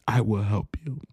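breathy whispered promise. Acted. God's promise repeated to the listener, whispered. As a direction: drop to a whisper.

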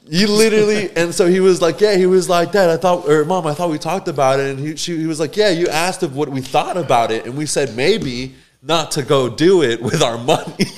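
high, loud laughing retell. Real, not acted. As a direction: barely keep it together.

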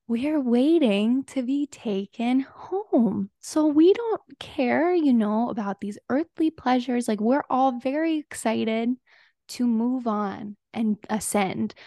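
slow, serene, dreamy cult-leader voice; mock cult leader. Cult leader on video telling viewers they'll ascend, slow mock serenity. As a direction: drift through it like a calm, blissed-out guru, very slowly. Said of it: "He's like".

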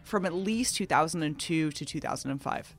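measured, scripted news intro; news read. Acted. Host briefing listeners on a criminal case, news read. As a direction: read it as a sober news report.

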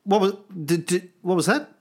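high, fast hammed-up astonishment; mock amazement. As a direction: act thunderstruck by a voice from heaven. Pretends to hear heavenly voice.

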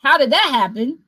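squeaky high mock-shocked "Oh, skirt"; surprised king. King finding out his servant didn't forgive, mock shock. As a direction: jump way up in pitch, hammed-up shock. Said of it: "the king found out and was like".

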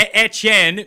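loud, slow French-accented name lesson; emphatic French pronunciation. Shown as a demonstration. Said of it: "You just love doing a French accent".

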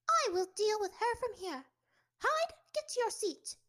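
high, loud schoolmarm snap; stern teacher snapping. Acted. Strict teacher snapping at a late pupil. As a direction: bark the order at the boy. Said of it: "she snapped at the boy".

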